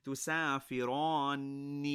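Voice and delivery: تسافران said slowly with a held double ن; doubled noon. Shown as a demonstration. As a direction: stretch the n near the end of تسافران. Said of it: "We're adding that shadda on the noon".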